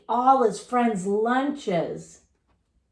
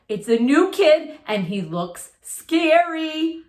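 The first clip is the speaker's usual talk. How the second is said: scared cry; 5 semitones higher, 3 dB louder than usual. Acted. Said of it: "cried Joey Mackerel".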